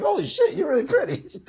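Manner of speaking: a jump up high on "holy shit", then laughing; stunned by a photo, high and laughing; amazed. Retold or imitated. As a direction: gasp it out, genuinely impressed. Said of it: "I'm like".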